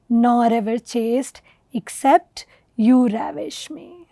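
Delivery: slow, measured verse reading; poem recitation. Acted.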